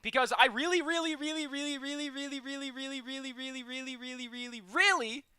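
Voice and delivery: high, fading string of reallys. Real, not acted. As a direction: stretch it out, pleading.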